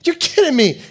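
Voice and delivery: squeaky high mock disbelief; a hammed-up, high-pitched, shocked double take; mock surprise. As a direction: play God as comically shocked. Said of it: "God's gonna go".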